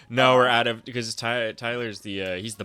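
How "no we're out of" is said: mock worker refusal. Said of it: "the second he said".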